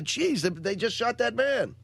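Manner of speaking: drawn out as if he can't believe his eyes; stunned disbelief. Retold or imitated. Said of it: "I go".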